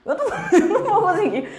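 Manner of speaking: laughing through "eu não vou conseguir"; real laughter. Real, not acted. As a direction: giggle as you give up.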